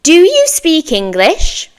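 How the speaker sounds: slow, clear question to copy; slow model for repeating. Shown as a demonstration. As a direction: say "Do you speak English?" slowly for students to repeat. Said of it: "then you can repeat after me".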